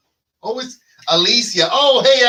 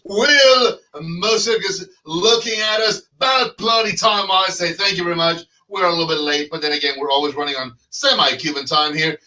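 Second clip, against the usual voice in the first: a hammed-up British accent, Irish and Cuban bleeding in; mock British accent; 4 semitones higher than usual. Host greets callers in a hammed-up British accent. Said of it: "Did you just get in from London".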